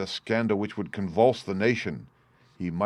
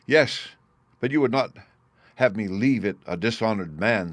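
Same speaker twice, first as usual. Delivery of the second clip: pleading; 2 semitones higher, 3 dB louder than usual. Acted. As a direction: press the father hard. Son pleads with angry father.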